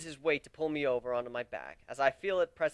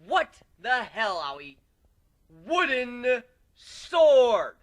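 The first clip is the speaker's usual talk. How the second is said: angry protest; 9 semitones higher, 8 dB louder, much slower than usual. A narrator's reading. Angry protest after real sword.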